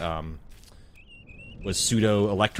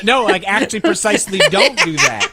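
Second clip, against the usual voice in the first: loud, high objection through laughter; laughing protest; 11 semitones higher, 8 dB louder than usual. Real, not acted. Friend warning against burning a gas-soaked sweater, laughing alarm.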